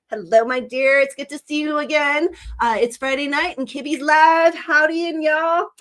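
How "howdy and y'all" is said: a light Southern Tennessee twang; Southern accent. Pretend. Kibby greets her chat in a light Southern Tennessee accent. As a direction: drawl a quick Southern howdy to the chat. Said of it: "my Tennessee accent".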